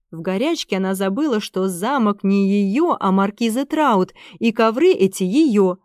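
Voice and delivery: plain reading voice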